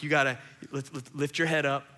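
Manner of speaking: calm, understated pep talk; quietly insistent coaching; encouraging dad. Retold or imitated. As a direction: urge her on gently and steadily. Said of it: "I'm encouraging her".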